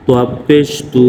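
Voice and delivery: "তোয়া পেশ তু" spelled out, ending on a long oo; pesh vowel demo. Shown as a demonstration. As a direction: recite "তোয়া পেশ তু" in parts, rounding the last vowel to oo. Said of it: "পেশের উচ্চারণ". ("তোয়া পেশ তু", পেশের উচ্চারণ দেখিয়ে, শেষে লম্বা উ)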